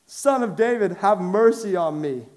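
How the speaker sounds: high-pitched insistent plea; crying out. Acted. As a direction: call out to him, undeterred. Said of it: "And he cries out again".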